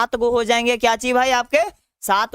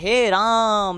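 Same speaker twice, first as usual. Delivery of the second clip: calling from afar; much slower than usual. Shown as a demonstration. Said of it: "तो कहते हैं".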